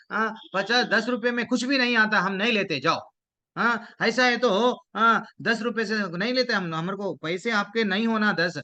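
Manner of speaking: indignant protest. Acted. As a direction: keep protesting, pitch held up.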